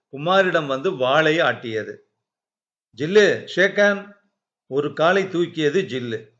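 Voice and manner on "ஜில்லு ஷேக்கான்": brisk, raised command to a pet; dog command. Acted. Kumar showing off his dog's trick, brisk command.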